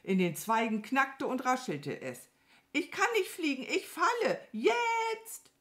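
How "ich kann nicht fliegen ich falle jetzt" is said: high-pitched crow in panic; rising panic to a long high wail; panicking. A narrator's reading. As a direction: cry out as you drop. Crow about to fall.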